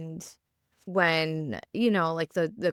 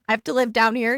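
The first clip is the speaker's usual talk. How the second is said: laughing; 6 semitones higher, 8 dB louder, much faster than usual. Retold or imitated. Joking orders to sick husband.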